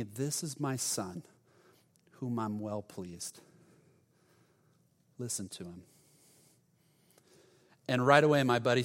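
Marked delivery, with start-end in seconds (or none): 0.0-5.8 retold soft voice of God, with long pauses; whispered divine word. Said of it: "the Lord just whispered to me".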